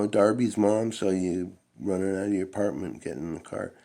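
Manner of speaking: put-on mother confronting her teenage son; imitating mom. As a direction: nag like a suspicious mother. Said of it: "you know, you know".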